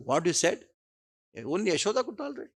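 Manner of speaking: mother rising in hurt disbelief; indignant disbelief. Retold or imitated. Mother offended by son's remark.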